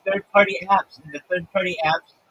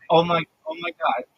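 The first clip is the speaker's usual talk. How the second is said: higher-pitched starstruck exclamation; imitating overwhelmed fan; 7 semitones higher than usual. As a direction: mimic a fan overcome at meeting their idol. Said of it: "I'm gonna cry".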